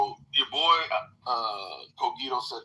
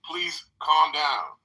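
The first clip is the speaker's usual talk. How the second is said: calm but firm; 2 semitones higher, 5 dB louder, slower than usual. Pretend. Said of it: "raise your fucking voice and say".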